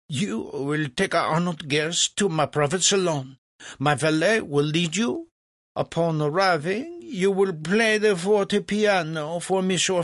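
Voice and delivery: high, pompous stream of orders; imperious French impresario. Acted. Legras orders Mozart to play for Franklin, imperious. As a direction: issue orders to an underling.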